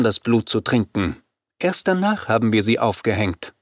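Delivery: a touch of amusement in a slightly lifted vampire voice; lightly voiced vampire leader, amused. Vampire points out her opponent's mistake, lightly amused. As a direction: lightly play a vampire relishing her story.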